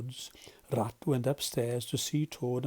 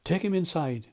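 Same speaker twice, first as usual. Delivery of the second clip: stern; 4 semitones higher than usual. Acted. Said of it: "he said sternly".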